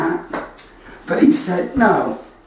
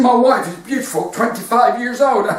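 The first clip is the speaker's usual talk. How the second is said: put-on higher comic tearful old man; mock crying; 4 semitones higher than usual. Old man telling of his young wife, mock crying. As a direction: lament it like a weepy old man.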